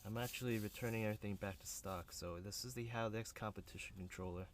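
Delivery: talking while lying under a car; strained, speaking flat on your back. Real, not acted. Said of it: "I'm under the car right now".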